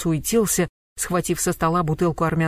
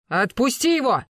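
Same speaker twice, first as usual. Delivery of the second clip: booming order, higher; thundering; 7 semitones higher than usual. A narrator's reading. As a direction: roar it to stop him. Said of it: "загремел Гектор". (громовой окрик)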